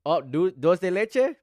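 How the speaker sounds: surprised. Real, not acted. Reading flavor name, drawn out.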